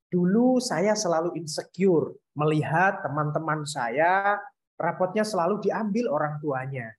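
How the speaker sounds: every word of "Dulu saya selalu insecure" distinct; clear articulation. Shown as a demonstration. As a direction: enunciate "selalu insecure" fully, evenly paced. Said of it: "Nah, itu kan jelas".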